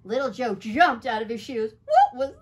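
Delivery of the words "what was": very high, loud scared cry; frightened cry. A narrator's reading. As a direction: shriek it in fright. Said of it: "he cried".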